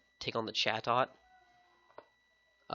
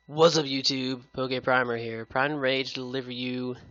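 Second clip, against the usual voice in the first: excited intro; 5 dB louder than usual. Real, not acted. Channel intro greeting.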